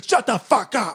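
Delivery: high mock tough guy. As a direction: snap back rudely. Joking aggressive bit.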